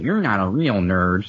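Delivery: lightly voiced snooty nerd; a hint of sneering gatekeeper nerd. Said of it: "I'm even doing the nerd voice".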